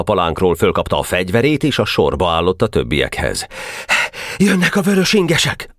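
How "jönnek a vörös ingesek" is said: sentry's report. A narrator's reading.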